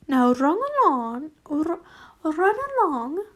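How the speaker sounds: swooping, sing-song dismissal; acted airy send-off; shooing. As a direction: shoo them off with a rise. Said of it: "she shooed us".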